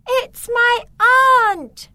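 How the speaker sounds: put-on high, loud joyful girl's cry; excited shout. Beatrice spots her aunt's carriage, high excited shout. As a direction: call out with delight at the carriage. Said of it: "and Beatrice shouted".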